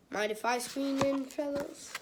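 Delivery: hopeful asking, lifting up on "fellas"; lightly voiced kid asking to join; lightly acted eager request. Greg asking bobsled team to squeeze in, lightly acted request.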